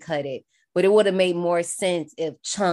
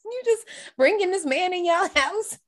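mock scolding question; 10 semitones higher than usual. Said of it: "But I'm like".

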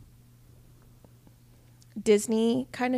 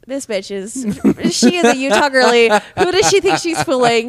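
imagined scornful onlookers; 3 semitones higher, 7 dB louder than usual. Retold or imitated. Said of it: "all these people are probably like".

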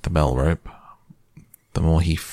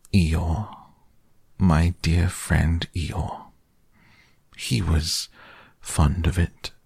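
sad; slower than usual. Acted. Pooh sadly names the owner.

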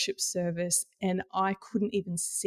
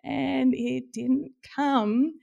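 deflated; 6 semitones higher, 4 dB louder, much slower than usual. Real, not acted. Deflated punchline after singing.

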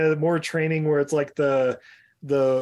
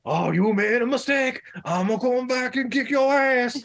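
higher, twangy redneck threat; 9 semitones higher than usual. Retold or imitated. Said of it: "Love his redneck voice".

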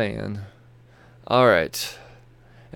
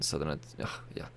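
yawning; 7 semitones lower, 13 dB quieter than usual. Real, not acted. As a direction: voice swallowed by a yawn. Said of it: "I apologize for the yawn".

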